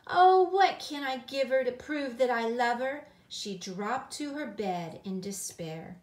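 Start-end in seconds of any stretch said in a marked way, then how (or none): 0.0-3.1 put-on high, raised child's plaint; tearful. A narrator's reading. Gilly fearing Granny will think she doesn't care, tearful plea. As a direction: plead in acted distress, no real sobs. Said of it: "she muttered while crying".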